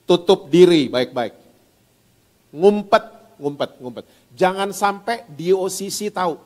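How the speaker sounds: sly tempter urging them to hide; a hint of a scheming devil; devil's voice.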